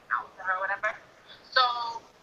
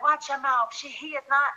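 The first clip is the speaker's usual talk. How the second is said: scolding mom imitation; 9 semitones higher than usual.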